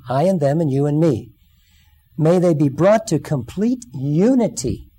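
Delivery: earnest, measured reading of a prayer; scripture reading. Acted. Preacher reading Jesus' prayer to the congregation, earnest. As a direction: read it as a solemn prayer.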